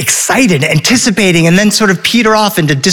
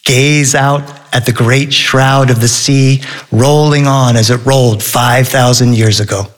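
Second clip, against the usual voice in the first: literary quotation; 4 semitones lower than usual. Acted. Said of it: "to quote Herman Melville".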